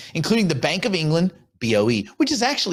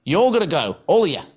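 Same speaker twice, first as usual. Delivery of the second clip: punchy mock Cockney, pitched up; Billy Butcher. Host demonstrating for co-host, hammed-up Cockney tough guy. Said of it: "talk like Billy Butcher".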